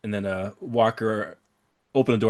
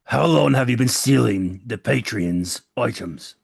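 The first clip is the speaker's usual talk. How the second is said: slow, deliberate questioning; slow interrogation; slower than usual. Acted. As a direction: lean on each word of the question. Interrogating the captured thief.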